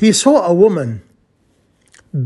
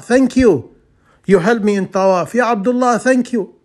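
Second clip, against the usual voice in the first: voices higher, calling out thanks; grateful pilgrims; 4 semitones higher than usual. Retold or imitated. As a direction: call out "Ya Abdullah" like a thankful pilgrim.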